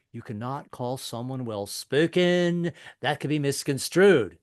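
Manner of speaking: slow, appalled, stretched-out words; freaked-out daughter. Acted. Daughter correcting Dad at the premiere, drawn-out mock outrage. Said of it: "she freaked out".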